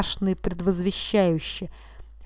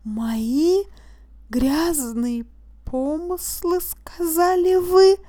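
rising higher and louder to an incredulous question; disbelief; 9 semitones higher, 4 dB louder, much slower than usual. A narrator's reading. Accused throwing the judge's words back, higher and louder in disbelief. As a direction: climb into outraged disbelief.

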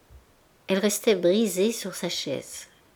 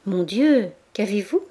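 upset cry. A narrator's reading. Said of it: "s'écria Denise bouleversée".

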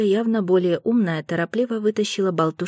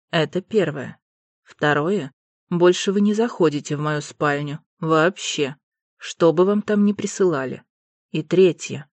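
stern lord. Acted. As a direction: lay down the law coldly. Alastair voiced low, stern.

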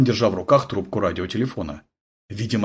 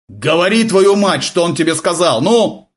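higher and louder, furious; furious demand; 7 semitones higher, 6 dB louder than usual. A narrator's reading. Polundra grabbing the sergeant, furiously demanding answers. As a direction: shake the truth out of him.

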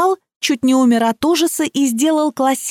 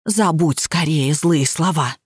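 slow, lower, soothing plea; soothing lament; 5 semitones lower, slower than usual. A narrator's reading. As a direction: coax her gently to forget it. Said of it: "запричитала".

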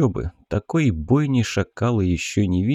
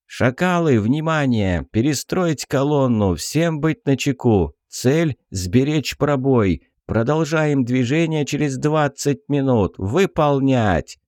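barked radio orders; 5 semitones higher than usual. Acted. Commander barks orders over radio.

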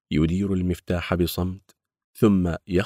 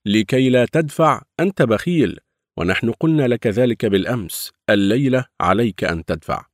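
demanding; 4 semitones higher, 6 dB louder than usual. Acted. Gang demanding payment.

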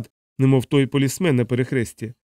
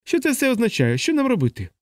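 1 panicked cry; 10 semitones higher than usual. A narrator's reading. Panicked patients.

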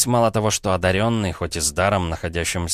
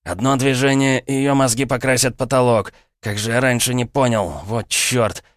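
higher, louder menacing threat; threatening gunman; 5 semitones higher, 3 dB louder than usual. Acted. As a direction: snarl it with the gun to her chin. Gunman holds hostage, threatens.

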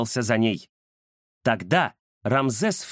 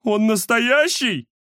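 higher, slow, fearful question; scared disbelief; 8 semitones higher, 4 dB louder, slower than usual. Acted. Scared Nafanya asks the boss about the ghost, frightened.

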